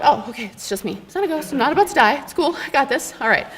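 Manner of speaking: put-on a shaken girl telling herself it's only her reflection; nervous self-reassurance. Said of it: "calm down".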